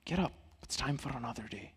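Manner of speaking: soft, tender morning call; gentle wake-up. Shown as a demonstration. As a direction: coax them awake gently. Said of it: "sunlight gently comes in and say".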